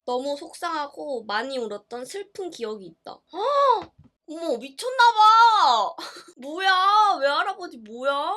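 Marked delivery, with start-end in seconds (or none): 3.2-3.9 a loud, high gasp that falls away. Real, not acted. Reacting to grandfather selling the dog, a loud gasp. 4.3-8.3 higher, much louder, very slow disbelief; stunned outrage. Real, not acted. Daughter reacting to grandfather selling the puppy, outraged disbelief.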